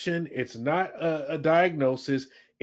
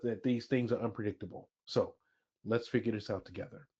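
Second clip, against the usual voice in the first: supportive boss; 5 semitones lower, 4 dB quieter than usual. Shown as a demonstration. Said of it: "That sounds like support".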